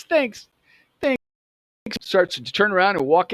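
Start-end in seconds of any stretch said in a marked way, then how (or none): 0.0-1.2 high-pitched cool-cat voice; cool dude. Retold or imitated. Cool dude greeting the new kid behind the counter, imitated high. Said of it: "he's a pretty cool, cool dude".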